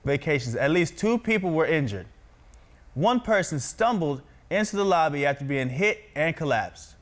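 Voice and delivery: projected, evenly paced news anchor read. Shown as a demonstration. Practises reading news aloud.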